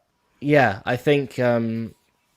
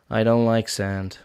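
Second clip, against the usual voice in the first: a lightly voiced Anakin, softer and brooding; quiet sulky complaint about sand; Anakin impression; 4 dB quieter than usual. Anakin complaint done for friends on stream, lightly voiced. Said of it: "that was actually really good on that second half".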